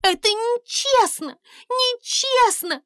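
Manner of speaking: high, loud tearful shout. Acted. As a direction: princess screams in protest. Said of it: "кричала принцесса". (громкий высокий крик принцессы)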